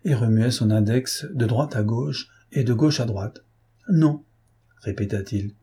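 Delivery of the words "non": a smug, knowing no; the judge repeats it, sly and pleased with himself; mocking no. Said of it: "souriait d'un air narquois".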